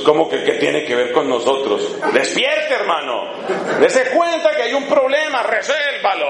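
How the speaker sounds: half-laughing mock macho reply; mock manly retort. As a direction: play a pushy husband telling Jesus to fix it. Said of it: "Si María hubiera sido un hombre".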